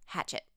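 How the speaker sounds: Hachette said like English hatchet; anglicized pronunciation. Shown as a demonstration. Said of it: "it should be pronounced hatchet".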